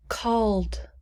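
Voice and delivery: whispered past tense word. Shown as a demonstration. Teacher whispering a word for students to repeat. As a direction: breathe the word called. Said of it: "Please repeat".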